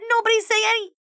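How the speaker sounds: high urgent warning, cut off; loud high warning that breaks off. Acted. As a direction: warn them fast before it's too late. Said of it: "Jenny tried to warn".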